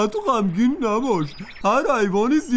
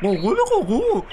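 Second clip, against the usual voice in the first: rooster crow. Acted. Rooster crows at turkey.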